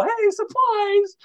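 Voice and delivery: slow, high, stretched yell; long high hollered greeting; drawn-out shout. Retold or imitated. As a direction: stretch it out and call it across the office. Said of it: "they see me, they go".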